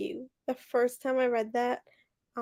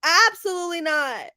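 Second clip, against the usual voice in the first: retold hysterical wail, high and loud; 5 semitones higher, 6 dB louder than usual. Reader retelling her reaction to a death scene, hysterical. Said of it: "I was hysterical".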